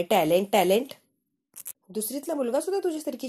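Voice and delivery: sarcastic sing-song echo of the word; mocking echo. Mocking the husband who keeps boasting. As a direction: mimic his boast with scorn. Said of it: "म्हणे".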